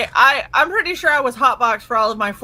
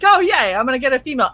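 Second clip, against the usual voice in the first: higher, pleased little yay; mock excitement; 3 semitones higher, much faster than usual. Hopeful patient pleased at getting a female doctor, mock cheer. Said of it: "and I'm like".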